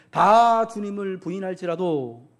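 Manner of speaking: Simon loudly swearing loyalty to Jesus; bold vow. Retold or imitated. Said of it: "아주 용감하게 나서서 말씀하시죠".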